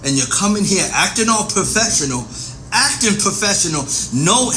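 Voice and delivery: belligerent. Acted. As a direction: throw it back at the detective. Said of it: "you being belligerent with me".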